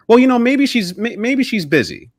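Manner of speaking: nervous hope. Retold or imitated. Anxious self-reassurance.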